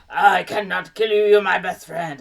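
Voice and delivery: hammed-up sword standoff; mock heroic plea. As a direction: plead it like a movie hero. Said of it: "Puss in Boots is like".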